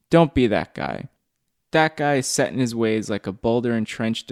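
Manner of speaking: emphatic, declaimed poem reading; poem recital. Acted. Poet reading own work to podcast listeners, emphatic recital. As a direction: drive each line home as spoken verse.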